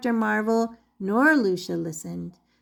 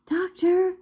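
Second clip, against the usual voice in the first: raised, calling across the room; calling loudly; 8 semitones higher than usual. Acted. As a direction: call out to get his attention. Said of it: "Lucia called loudly".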